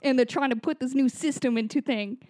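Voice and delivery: put-on Boston accent. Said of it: "In a Boston accent now".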